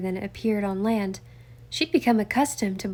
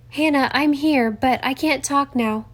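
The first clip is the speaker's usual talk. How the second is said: loud, higher call up the hatch; 5 semitones higher, 5 dB louder than usual. Acted. Nancy calls up through the hatch to Hannah, loud and higher. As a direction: call up to your friend on deck. Calling up from the cabin.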